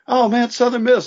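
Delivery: high, thrilled mock cheer; retold FaceTime buddy cheering the team, pitched high; imitating excited fan. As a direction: channel a fan lighting up on the call.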